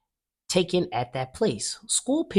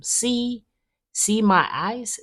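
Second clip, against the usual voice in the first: excited showing off; 9 semitones higher, 3 dB louder, slower than usual. A narrator's reading. Showing the photographer her eyes.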